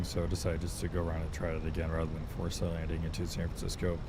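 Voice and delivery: calm captain's cabin announcement; pilot over the radio. Acted. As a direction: address the passengers like an airline captain.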